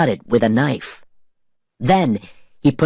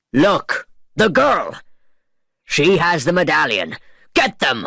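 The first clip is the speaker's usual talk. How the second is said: alarmed shout; 4 semitones higher than usual. A narrator's reading. Pirates spot the escape.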